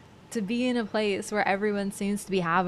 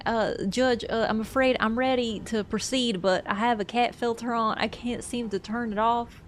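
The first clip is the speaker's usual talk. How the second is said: lightly imitated earnest Southern lawyer; a hint of flustered Southern courtroom politeness; earnest Southern accent. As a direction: plead your case sincerely with a mild Southern accent. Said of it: "speaking to the camera very earnestly".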